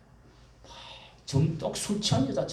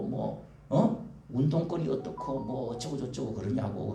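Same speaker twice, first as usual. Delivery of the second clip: put-on contemptuous children; 5 semitones lower, 3 dB quieter than usual. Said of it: "바보 병신을 취급을 해요".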